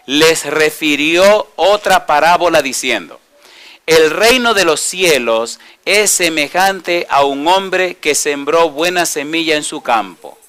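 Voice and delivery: slow, deliberate Bible reading; scripture reading. Acted. Preacher reads verse twenty-four to the congregation, slow scripture reading. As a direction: read the verse out slowly, phrase by phrase.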